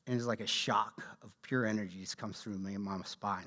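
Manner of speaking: hushed whisper, reliving the thrill; awed whisper. Real, not acted. Telling the audience about his spine-tingling moment, an awed whisper. Recalling a shock of energy.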